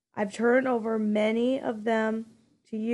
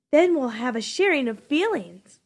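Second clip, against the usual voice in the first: nasty sarcasm; 3 semitones higher, 5 dB louder than usual. Acted. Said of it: "the nasty, sarcastic voice again".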